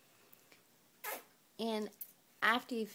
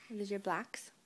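whispering. Acted. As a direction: hush it gently to the little one. Hushed words to toddler.

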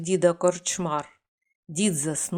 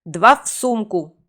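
louder magic command; shouted spell; 6 dB louder than usual. Acted. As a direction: bark the spell to call them back. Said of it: "крикнув він". (гучно вигукнуте заклинання)

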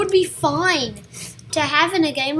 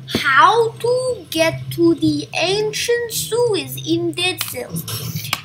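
slow, louder, word by word; slow mock typing-aloud voice; drawn-out search query; 3 semitones higher, 4 dB louder, much slower than usual. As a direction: spell out the query slowly. Voices a search query being typed.

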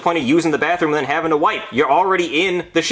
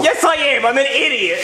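higher, upset self-blame; whiny insistence; 12 semitones higher than usual. Acted. Insists he is stupid.

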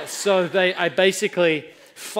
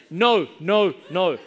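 loud retold refusal; yelling back; 6 dB louder, slower than usual. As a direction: shout each word back at the coach. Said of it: "I start yelling back at him".

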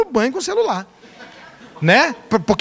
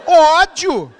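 laughing admission; 3 semitones higher, much slower than usual. Retold or imitated. Pastor admits hatred, laughing.

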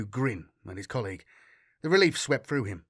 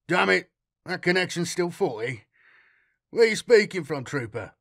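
blustering captain; 5 semitones higher, 4 dB louder than usual. Acted. Captain bluffing loudly.

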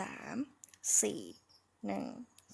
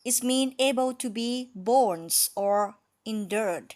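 slow repeated model; 2 semitones higher, 5 dB louder, much slower than usual. Shown as a demonstration. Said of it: "ถ้าเราพูดบ่อยๆ ซ้ำๆ".

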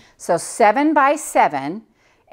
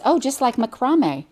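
lightly imitated Australian accent, higher; 5 semitones higher than usual. Quilter quoting her friend's reply, light imitation of an Australian accent. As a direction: tease with a raised Australian "macrame". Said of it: "I tease her a lot about that accent".

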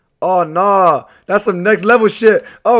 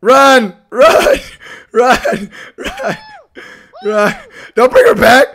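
panicked begging; 4 semitones higher than usual. Real, not acted. Begging teammate while fleeing.

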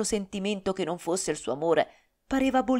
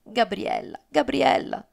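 pleading; 3 semitones higher, 4 dB louder, slower than usual. A narrator's reading. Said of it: "Blasco la supplicava".

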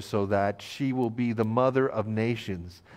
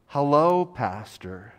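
calling out hello; 2 semitones higher, slower than usual. Retold or imitated. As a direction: call hello from across the aisle. Stranger calls across the store.

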